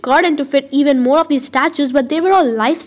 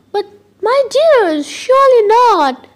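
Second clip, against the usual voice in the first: a hint of a Middle Eastern accent, drawn out and pitying; vague Middle Eastern accent; 8 semitones higher, 3 dB louder than usual. A narrator's reading. Old shopkeeper doubting the orphan story in a Middle Eastern accent. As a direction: lightly Middle Eastern accented, slow and higher. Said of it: "Her accent sounded vaguely Middle Eastern too".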